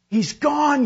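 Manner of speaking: high, loud insistent shout; yelled. A narrator's reading. Uncle repeats it to the stubborn swimmer, yelling. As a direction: holler bad news over the water. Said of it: "yelled Uncle Reuben again".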